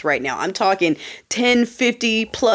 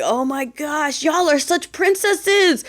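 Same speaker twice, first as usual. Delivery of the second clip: high, slow sarcastic drawl; slow high mocking princesses; 6 semitones higher, slower than usual. Real, not acted. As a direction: stretch it out with scorn. Mocking the so-called alphas.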